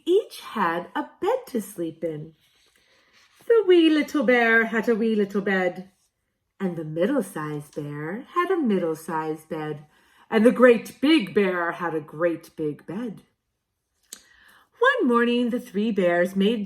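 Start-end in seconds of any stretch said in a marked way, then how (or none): 3.4-5.9 silly wee bear voice. Acted. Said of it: "in a silly voice". 10.3-13.2 silly big bear voice. Acted. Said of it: "in a silly voice".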